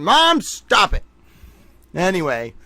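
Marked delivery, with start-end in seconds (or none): 0.0-1.0 drawn-out, higher-pitched mock whine; exasperated protest. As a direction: imitate a pestered kid protesting to mom. Retold protest to mom in argument.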